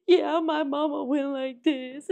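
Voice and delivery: 小さな女の子っぽく、ゆっくり声色を変えて; lightly voiced little girl, slow; little girl's voice. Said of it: "She was like".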